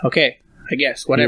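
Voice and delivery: reluctant, fed-up sigh of a reply; imitating his own weary sigh; sighing reluctance. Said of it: "There was a sigh there".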